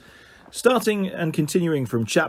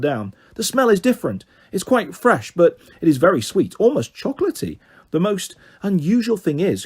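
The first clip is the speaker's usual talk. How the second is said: dog character voice; 4 semitones higher than usual. Acted. Ned the dog speaks.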